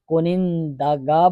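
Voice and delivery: کنندگاں spelled out slowly, nasal ending; slow it down so students catch each part; teacher dictating slowly to the class; slow careful. Shown as a demonstration. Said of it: "توجہ کرو".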